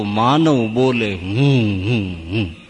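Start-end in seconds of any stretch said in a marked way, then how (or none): 1.1-2.6 owl hoot. Retold or imitated. Owl-like human hooting "I.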